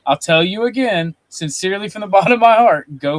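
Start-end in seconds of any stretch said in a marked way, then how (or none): 1.3-3.0 laughing mid-sentence. Real, not acted. Laughs mid mock sincere insult.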